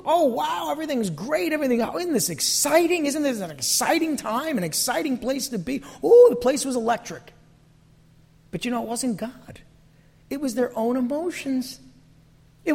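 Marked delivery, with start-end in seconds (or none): 0.0-7.3 hammed-up gushing, higher; mock excitement. Israelites hyped in camp, mock excited. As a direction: gush like it's all electric. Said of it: "It looked".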